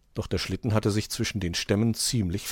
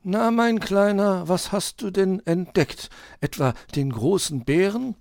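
genial uncle owl; 11 semitones higher, 5 dB louder than usual. A narrator's reading. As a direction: question the little one as an uncle owl. Uhu addresses little Borstel. (freundlicher Onkel Uhu, gedehnt beginnend)

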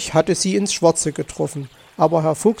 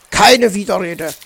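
firm, louder first word; stern refusal; 6 dB louder than usual. Acted. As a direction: cut off the pleading firmly. Uncle cuts off nephew's pleading. (streng und bestimmt)

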